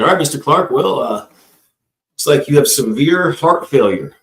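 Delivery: a hint of a grave doctor, slowed right down; serious doctor. Doctor gravely telling the patient about heart failure, slow and serious. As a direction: deliver bad news like a solemn doctor. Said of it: "He's all serious".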